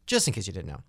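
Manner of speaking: a quick whisper under the breath; whispered aside. Real, not acted. Host whispering an aside to viewers, hushed.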